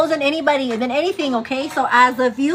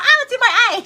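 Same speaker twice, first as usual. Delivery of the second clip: laughing; 10 semitones higher, 6 dB louder, much faster than usual. Retold or imitated. Joking quote with laugh.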